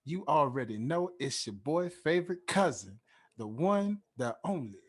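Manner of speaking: slow, drawn-out announcer build-up to the name; hype host introduction. Acted. Podcast host hyping up his co-host, announcer style. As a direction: hype up the guest like a showman, stretching her name.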